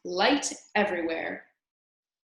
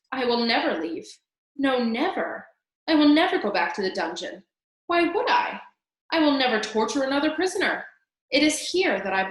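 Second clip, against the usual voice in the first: ecstatic vow; 4 semitones higher, 5 dB louder than usual. Acted. Rat ecstatic in the castle.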